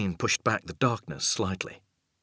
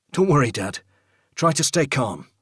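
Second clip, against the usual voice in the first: calming son; 6 semitones higher, 6 dB louder than usual. Acted. Son calming his confused dad.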